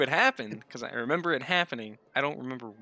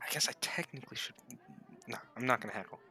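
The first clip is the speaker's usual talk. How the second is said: whispering; 7 dB quieter, faster than usual. Real, not acted. Aside to self.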